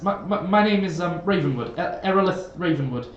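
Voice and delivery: lightly flustered, stammered introduction; a hint of bumbling awkwardness; socially awkward fellow. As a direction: stumble hesitantly through your own name. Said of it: "I'm awful around new people".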